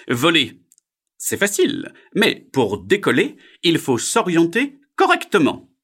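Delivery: loud, high, deliberate bird voice; heron. Acted. Heron teaches frog to take off, loud character voice. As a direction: lecture loudly as a learned heron.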